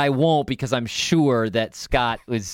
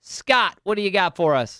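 calling out; 5 semitones higher than usual. Acted. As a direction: hand it over with a big call. Calling on the listener's question.

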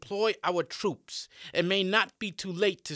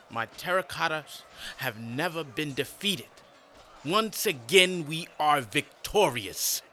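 gloating emperor; 2 semitones higher, 4 dB louder than usual. Acted. Emperor gloats over victory.

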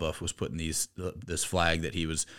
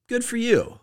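very high, louder exclamation; mock congratulation; 5 dB louder than usual. Host cheering on the video's poster, mock congratulation. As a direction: chirp it way up high. Retold reaction to online video.

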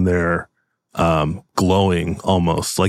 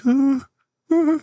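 high, hurried reassurance; smooth over the scene; nervous host voice; 9 semitones higher than usual. Acted. Owner calms startled customers, high and nervous.

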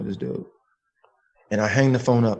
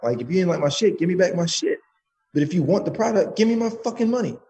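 mock-tough angry demand, pitch climbing; retold tirade building toward a higher-pitched demand; gangster threats; 4 semitones higher than usual. Caller threatening a man's voicemail over unpaid money, mock gangster threats. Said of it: "some gangster shit".

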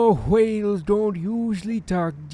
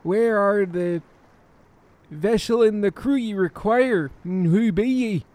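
put-on pirate accent. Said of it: "you sound a lot like a pirate".

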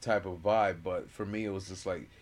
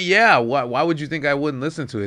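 indignant; 6 semitones higher, 11 dB louder than usual. Retold or imitated. Retelling defensive reply to friend.

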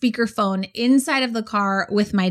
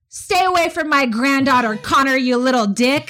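higher, mock-angry grandpa threat; hammed-up protective old man; protective grandpa yelling; 3 semitones higher than usual. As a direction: play the furious grandfather on speakerphone. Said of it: "Loud on the speaker".

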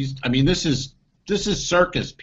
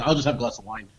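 this voice; 3 semitones lower, faster than usual. Retold or imitated. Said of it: "talking like this".

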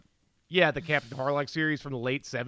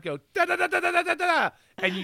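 limp blast noises; 11 semitones higher, faster than usual. Shown as a demonstration. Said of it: "just with your hands at your side".

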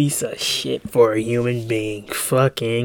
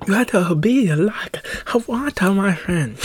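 slow, higher, drawn-out sage voice; mock wise master; 8 semitones higher, slower than usual. Shown as a demonstration. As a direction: play a lightly hammed-up kung fu master. Mock sage advice repeated.

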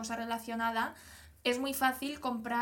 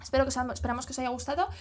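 too much caffeine; 5 dB louder, faster than usual. Real, not acted. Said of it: "Estoy como muy acelerada, creo que me he pasado de café".

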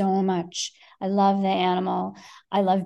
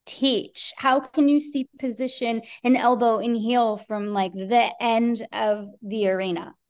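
exasperated rant; 2 semitones higher than usual. Retold or imitated. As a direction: vent like you've had enough. Frustrated rant at lazy trainer.

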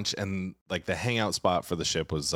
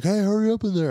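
high, loud mock yell through the door; impatient bar patrons yelling, much higher and louder; retold yell; 6 dB louder than usual. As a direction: shout at whoever is in the stall. People banging on bathroom door.

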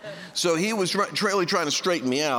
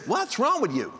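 lightly mimicked cheery wife, higher pitch; bubbly wife; 5 semitones higher than usual. Happy wife asking her irritable husband what's up, bubbly. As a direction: imitate a bubbly wife's question. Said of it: "She's all happy and bubbly".

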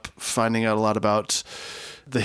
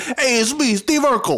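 high nerdy sitcom voice; squeaky nerd catchphrase; Steve Urkel voice; 13 semitones higher, 3 dB louder than usual. Pretend.

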